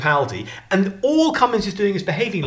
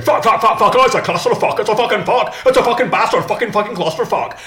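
loud, higher-pitched mock tirade; sweary rant; 4 semitones higher, 4 dB louder than usual. Imitating the actor in The Thick of It, ranting loudly. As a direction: fire off the swearing in a hammed-up rage. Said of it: "And he's just going".

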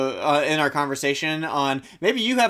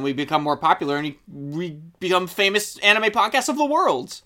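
sarcastic; 2 semitones higher, 3 dB louder than usual. Acted. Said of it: "the sarcasm slowly starts to go away".

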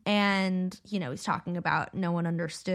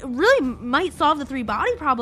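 high, urgent, stumbling plea; acted pleading, restarting over the words; flustered protest; 6 semitones higher, 3 dB louder, faster than usual. Wang insists his model might work, high flustered protest.

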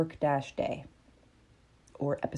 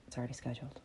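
calm reply; 5 semitones lower, 15 dB quieter, much faster than usual. Acted. Calm answer to panic.

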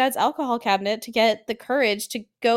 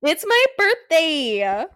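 slow, drawn-out mock plea; playful pleading; 3 semitones higher, much slower than usual. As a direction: stretch it out like a birthday demand. Playful plea in Nancy bit.

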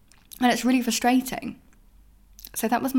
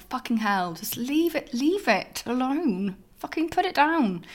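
exasperated mutter; 4 semitones higher than usual. Retold or imitated. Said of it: "I'm like".

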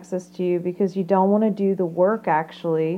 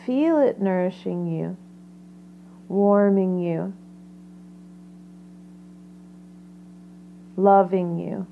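guided meditation. Acted.

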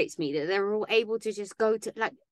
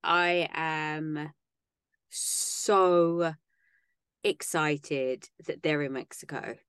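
slow, drawn-out mock excitement; extreme sarcasm; 3 semitones lower, much slower than usual. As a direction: feign excitement, dragging out every word sarcastically. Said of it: "I say that with extreme sarcasm".

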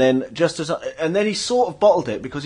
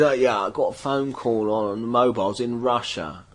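lower, mock transatlantic accent; a rock singer; 4 semitones lower, 5 dB quieter than usual. A singer bragging from the stage about Russia, transatlantic accent. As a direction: put on a weird transatlantic rocker accent. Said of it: "Why does he talk like that?".

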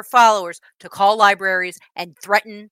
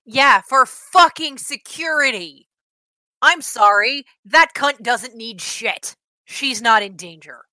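angry; 4 semitones higher, 5 dB louder, slower than usual. Real, not acted. Furious rant about activist.

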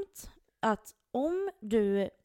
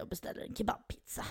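whisper; 7 dB quieter than usual. Real, not acted. Whispered aside in story.

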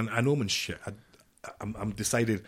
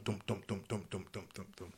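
fading dums; 11 dB quieter than usual. Shown as a demonstration. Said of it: "because of dum".

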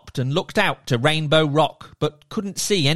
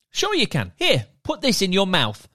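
merman; 4 semitones higher than usual. Acted. Merman character voiced.

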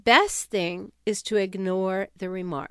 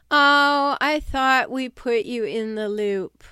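loud, falsely surprised "Oh" then breezy excuse; fake-innocent brush-off, hammed up; imitating a passive-aggressive colleague's fake surprise; mock innocence; 3 semitones higher, 5 dB louder, slower than usual.

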